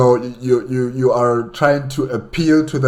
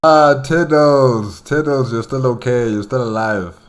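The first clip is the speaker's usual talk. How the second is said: relieved greeting; 3 semitones higher, 4 dB louder than usual. Acted. Greeting the lost pet squig.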